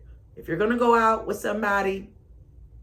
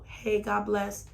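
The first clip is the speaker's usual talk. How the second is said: polite church blessing; 4 semitones higher, 4 dB quieter, slower than usual. Retold or imitated. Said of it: "should have threw some Jesus in there".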